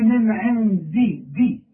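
student's sloppy "من عندي" with a weak dal; imitating student's mistake. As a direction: copy the learner's blurred dal. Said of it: "وانت لسه قايلها".

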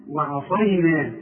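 وعصينا slowly, thin ayn then heavy s; drawn-out وعصينا; light ayn. Shown as a demonstration. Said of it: "الأول هنقول وعا".

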